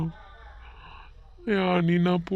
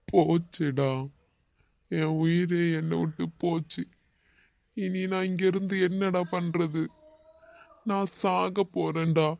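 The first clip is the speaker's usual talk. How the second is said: despairing; 4 dB quieter than usual. Acted. Heartbroken friend despairing.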